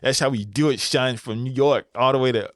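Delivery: put-on mild New York Bronx accent bragging to the viewers. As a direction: play it like a Bronx guy hyping his crew, New York accent. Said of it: "that's the best New York Bronx accent I got".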